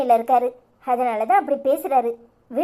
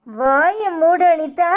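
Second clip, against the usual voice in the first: angry command; much slower than usual. Acted. Mother silencing daughter angrily.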